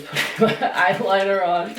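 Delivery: real laugh breaking into the sentence; laughing complaint. Real, not acted. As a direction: complain while laughing at yourself.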